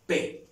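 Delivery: a crisp P said on its own; isolated P sound. Shown as a demonstration. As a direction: pop out a clean P sound. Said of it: "¿Cómo suena?".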